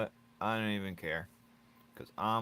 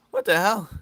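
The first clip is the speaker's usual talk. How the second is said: much higher and louder outburst; retold disbelief; 12 semitones higher, 12 dB louder than usual. Reacting to fans asking for drawings, in loud disbelief. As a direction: blurt it out in shock. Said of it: "I'm like".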